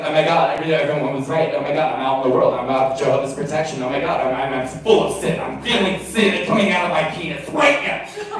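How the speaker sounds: fast, breathless oh my God panic; mock panic spiral. Inner panic about sin.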